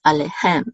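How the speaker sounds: "alehem" with the final "hem" stressed; stress on last syllable. Shown as a demonstration. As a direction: lean on "hem" at the end of "alehem". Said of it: "over the last syllable".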